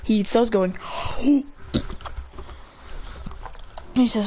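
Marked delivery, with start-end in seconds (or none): 0.8-2.5 soft, voiceless gasp; breathy gasp. Acted. Demon with noodles left in his hands, gasping. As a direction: suck in air softly. Acted reaction eating spilt noodles.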